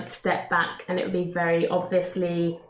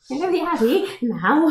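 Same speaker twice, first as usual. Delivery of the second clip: mock authority; 7 semitones higher than usual. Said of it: "as much authority as Ismark can muster".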